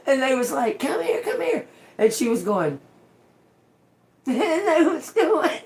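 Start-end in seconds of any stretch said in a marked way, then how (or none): 0.8-1.7 calling out. Retold or imitated. Friends calling her to come.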